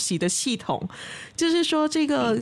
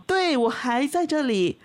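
slow, unhurried snail reply; drawn-out and calm, a snail that is in no hurry; 5 semitones higher, slower than usual. Acted. Snail answers the eagle from below, slow and calm.

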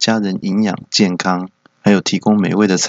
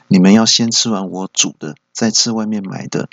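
angry mom; 5 semitones higher than usual. Retold or imitated. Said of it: "马上就很火大".

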